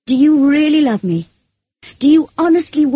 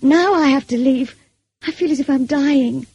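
higher, impassioned anguish; pouring out her heart; 6 semitones higher, 4 dB louder than usual. A narrator's reading. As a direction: plead it out, feeling overflowing. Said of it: "I poured out what was in my heart".

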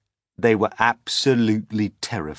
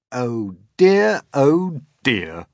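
louder, higher mock dismay; amused creatures; 5 semitones higher, 7 dB louder, slower than usual. Creatures teasing frightened James, high and amused. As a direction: chuckle it out.

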